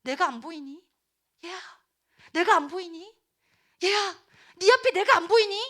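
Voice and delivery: pleading, building from gentle to loud and high; mounting urgent question; desperate appeal. Acted. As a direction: implore a child to notice you. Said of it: "하나님이 절박하게".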